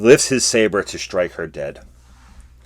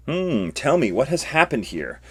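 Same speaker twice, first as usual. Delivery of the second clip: a hint of higher old Yoda voice; lightly voiced wise old master, asking calmly; 7 semitones higher than usual. Yoda questions the fighting students in a higher wise voice. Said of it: "Yoda walking on the scene here".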